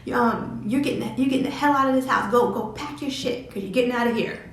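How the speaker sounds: high, loud kicking-out rant; enraged mother throwing out her pregnant daughter; furious mom. Retold or imitated. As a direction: throw her out of the house, yelling. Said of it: "she was like".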